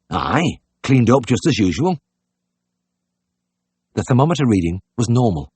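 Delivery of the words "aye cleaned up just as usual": slow country character voice; lightly voiced, drawn-out dialect; country innkeeper's answer. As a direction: answer slowly as a rustic pig-keeper.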